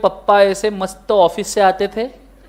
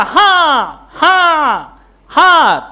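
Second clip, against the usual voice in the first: soap serial yes; 5 semitones higher, much slower than usual. Retold or imitated. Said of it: "तीन अलग-अलग angle से".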